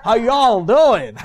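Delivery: slow Kentucky "how y'all doing"; Kentucky accent. Shown as a demonstration. Visiting preacher showing off his learned Kentucky accent, slow playful drawl. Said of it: "so you speak a Kentucky accent".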